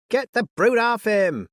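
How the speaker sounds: high, loud panicked scream; a woman's frantic scream. Acted. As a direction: scream it at the crowd to get the dog off. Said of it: "screamed a woman".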